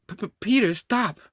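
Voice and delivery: mock-frightened stammer; stammered plea. Norman begging Peter to stop, stammered plea.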